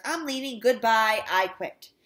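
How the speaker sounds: loud, emphatic farewell; angry quitting. A narrator's reading. Teacher quitting on the principal, angry and loud. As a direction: hurl each short statement as a final word.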